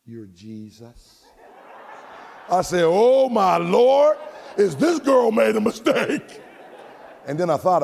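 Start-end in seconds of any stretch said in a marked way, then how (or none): 0.1-1.2 very soft, slow imitation of a child; barely audible, drawn-out small-child reply; little girl's hushed answer. Little girl's shy answer retold. 2.9-6.4 loud, drawn-out comic exclamation; high, slow retold outburst; mock astonishment. His astonished reaction retold.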